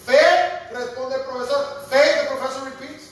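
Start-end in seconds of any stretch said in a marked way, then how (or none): 0.0-0.7 scornful echo. Retold or imitated. Professor scornfully repeating faith. 1.9-2.2 scornful echo. Retold or imitated. Professor scornfully repeating faith.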